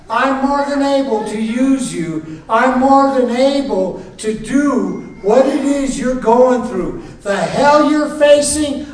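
high, forceful preaching declaration; God declaring. Acted. God assuring Moses and the congregation, forceful declaration. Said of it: "what he was saying to Moses".

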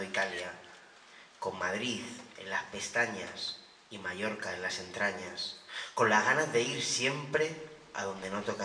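measured poetry reading with pauses after images; poem recital. Acted. Poet reads a summer's-end poem to an audience, poem recital. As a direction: recite it line by line, letting phrases fall away.

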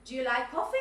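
"coffee" swings up at the end; rising intonation. Shown as a demonstration. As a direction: ask it with a clear lift on "coffee". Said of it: "Rising intonation".

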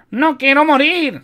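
high, loud, drawn-out wail; stretched, high cry of terror; desperate scream. A narrator's reading. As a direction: scream like a wounded man begging to live. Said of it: "gritó uno de los heridos".

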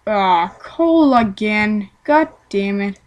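slow, fed-up grumble; bored annoyance. Retold or imitated. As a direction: drag it out, sick of coal. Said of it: "I will say".

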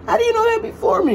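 high, fast squeal of fake indignation; mock outrage. Teasing her partner for naming it first, squealing high and fast. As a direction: shriek it like you've been robbed of the win.

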